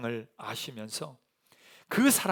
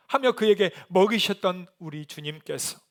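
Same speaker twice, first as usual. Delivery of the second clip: normal talking voice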